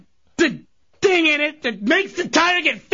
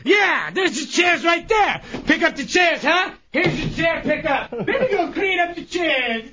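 sarcastic chair-cleaning rant. Pretend. Chunks told to clean up chairs, ranting sarcastically. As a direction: rant through the chore for show.

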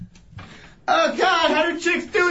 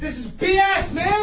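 yelling; 2 semitones higher than usual. Real, not acted. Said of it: "Stop yelling".

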